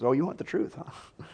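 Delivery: lightly mocking, tossed-off question; sarcastic. Prophet needling the king who demands truth, mildly sarcastic. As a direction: feign surprise, trailing into a quiet huh. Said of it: "he's sarcastic".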